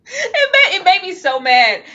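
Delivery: laughing through the words. Real, not acted. Laughing while telling friends she was mad. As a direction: she laughs at her own anger. Laughing about her anger.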